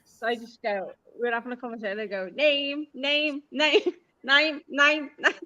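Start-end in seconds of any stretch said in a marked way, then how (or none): 2.3-5.3 name repeated louder and higher, shifting toward German "nine"; German-sounding name. Shown as a demonstration. Showing a friend how name comes out in talk, German-sounding. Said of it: "it sounds German".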